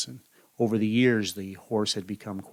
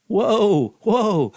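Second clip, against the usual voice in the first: much higher and louder shouts; panicked whoa; 11 semitones higher, 9 dB louder than usual. Acted. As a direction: yell at the horse to stop. Runaway horse near cliff.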